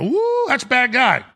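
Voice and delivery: high, exaggerated wary whoop; mock alarm. Onlooker spotting an obvious villain, mock alarm. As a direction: react with put-on dread. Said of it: "you go".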